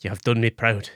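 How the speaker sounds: proud father, lightly Scottish; a hint of Scottish accent, measured praise; Charles Dance doing Scottish. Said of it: "it's Charles Dance doing a Scottish accent".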